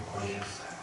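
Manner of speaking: 바꿔주셨어요 repeated quietly, almost breathed; soft echo. Real, not acted. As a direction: let 바꿔주셨어요 fall to a near whisper.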